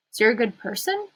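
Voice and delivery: "person" lifted at the end like a question; questioning tune. A narrator's reading. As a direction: say it unsure, rising on "person". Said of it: "She says it like a question".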